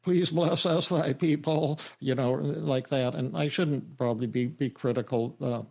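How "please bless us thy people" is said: lightly imitated warbly preacher, raised a little higher; mock his father's quavering pulpit prayer; warbling prayer voice. Imitating his minister father praying, warbly and a bit higher. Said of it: "he used to pray with a warbling voice".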